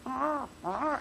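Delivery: a hint of tropical birds calling; imitating bird calls. Teacher imitating birds heard in Florida. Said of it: "You hear these wild, neat sounds".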